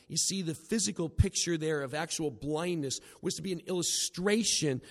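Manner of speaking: normal talking voice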